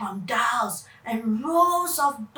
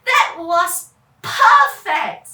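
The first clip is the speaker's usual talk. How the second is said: louder and slow, delighted; thrilled; 5 semitones higher, 10 dB louder, slower than usual. Acted. Kevin loves the air show, thrilled and loud. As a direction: savor the thrill. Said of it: "Kevin said".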